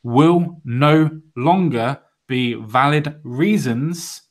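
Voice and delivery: very slow, measured news reading; emphatic read-aloud. Acted. Host reading out a South African gun law, slow and emphatic. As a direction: spell it out phrase by phrase, with weighty pauses. Reads out news item deliberately.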